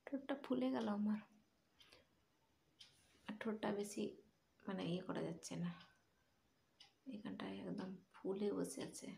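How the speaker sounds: talking with swollen lips. Real, not acted. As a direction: speak around a puffy lip. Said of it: "তো কথা বলতে একটু অসুবিধা হচ্ছে এখানটায়".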